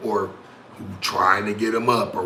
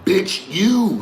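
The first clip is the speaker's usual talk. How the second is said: mock yell; 7 semitones higher, 8 dB louder, much slower than usual. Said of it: "and they be like".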